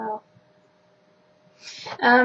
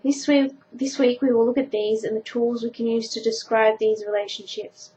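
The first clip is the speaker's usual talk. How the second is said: textbook reading. Acted. Reads maths textbook aloud.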